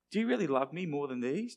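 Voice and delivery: earnest, searching question in an everyday pitch; understated, probing question; serious question. Acted. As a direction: ask it sincerely, without the joke. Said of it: "but really, what's the fishing gear?".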